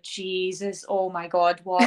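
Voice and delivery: mock disbelief in an altered voice; shocked. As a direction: replay your stunned reaction. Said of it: "And I was like".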